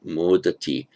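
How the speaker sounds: "modati", first syllable carries the weight; stress on mud. Shown as a demonstration. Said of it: "Stress on the mud".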